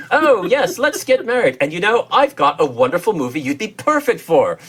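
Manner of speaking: gently hammed-up proposal voice; director wooing his bride. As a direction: play a mock director sweet-talking his new wife. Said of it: "It's sort of like, you know".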